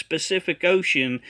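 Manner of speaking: "Pacific" as spuh-SIF-ic; mispronounced Pacific. Retold or imitated. Critic repeats the prophet's error, "Pacific" begun with sp. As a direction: put an s before "Pacific". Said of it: "by saying".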